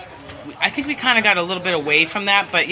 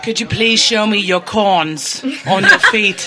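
creepy fan voice; 2 semitones higher, slower than usual. Pretend. Mocking creepy Periscope requests.

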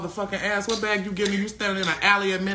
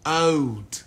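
low, slow mock-British drawl; British accent; 5 semitones lower than usual. American streamer explaining "old English" to Brit, British accent. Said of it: "chill out with that accent".

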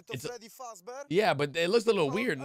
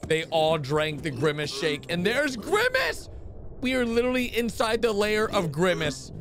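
ordinary talk, nothing marked

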